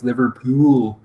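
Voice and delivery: "Liverpool" ending in a hard "pyool"; "Liverpool" said as "Liver-pule"; hard U sound. Shown as a demonstration. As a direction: put a U glide before the O in "Liverpool". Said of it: "hard U sound in front of the O sound".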